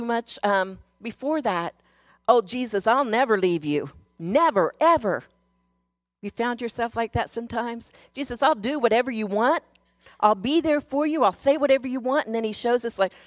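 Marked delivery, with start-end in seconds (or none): 2.3-5.2 loud, earnest promise; eager vow. Retold or imitated. Peter's boastful promise to Jesus. 8.1-12.2 high, loud, rushing pledges; a believer overeagerly promising Jesus anything; eager promises. Retold or imitated.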